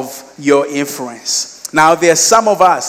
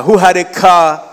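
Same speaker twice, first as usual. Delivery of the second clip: "car" said louder, pointedly; stress on car; 3 semitones higher, 5 dB louder than usual. Real, not acted. Preacher underlining the friend's wealth, stress on "car". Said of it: "underline the word car".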